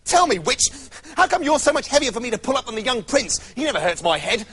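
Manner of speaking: put-on the girl in a temper asks the witch; cross young girl. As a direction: tell her off, half sulking. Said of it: "in a temper".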